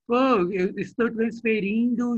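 telemarketing voice. Retold or imitated. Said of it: "alguém falando no telemarketing".

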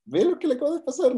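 lightly mocking question; a bit sarcastic. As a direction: imitate a wry remark that shoots up in pitch. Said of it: "Incluso un poco sarcástico".

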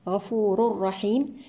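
"غفور رحيم" as slow "ghafuurur-rahiim"; merging without ghunna. Shown as a demonstration. Tajweed teacher showing idgham, doubled ra in "غفور رحيم". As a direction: merge the tanween of "غفور" into a doubled ra. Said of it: "إدغام بغير غنة كاملة".

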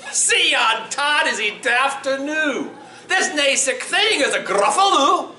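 high, incredulous scoff in Scots; gleeful, high-pitched Scots mouse; mocking mouse. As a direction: scoff merrily once the toad has gone. Mouse mocks fleeing toad in story.

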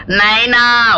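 hammed-up crying call; put-on crying. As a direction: outdo him with showy mourning. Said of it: "நான் அழுது அவனை அமுக்குறேன் பார்".

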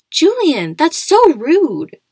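high, loud, slow outraged scold; shocked rebuke. Acted. Charlotte rebukes Julian for a rude question, loud and high. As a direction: drag it out, appalled and loud.

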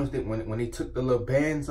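talking with lips held; fingers pulling at lips. Real, not acted. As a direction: hands tugging mouth corners. Seen 0: Fingers tug lips while speaking at 0.4–1.8 and again at 4.1.

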